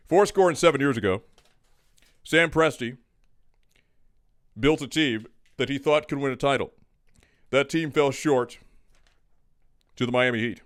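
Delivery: grand, measured oration with long pauses; mock presidential speech. Co-host delivering his winner pick as a mock speech. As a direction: deliver it like a solemn address to the nation. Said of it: "How long is this speech gonna be?".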